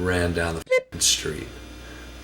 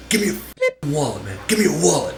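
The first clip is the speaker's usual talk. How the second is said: robber; 8 semitones higher than usual. Retold or imitated. Robber demands his wallet.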